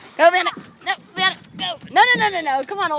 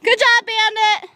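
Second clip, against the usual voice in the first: higher praise for the dog; talking to a dog; 8 semitones higher, 4 dB louder than usual. Real, not acted. Praising and calling dogs.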